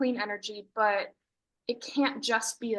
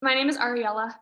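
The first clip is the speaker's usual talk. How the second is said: repeated louder and clearer; 4 dB louder than usual. Real, not acted. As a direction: say it again louder. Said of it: "I couldn't quite hear you".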